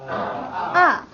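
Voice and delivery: AH starting high and falling sharply; falling fourth tone. Shown as a demonstration. Teacher models fourth tone for the class, sharp fall. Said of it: "That's falling".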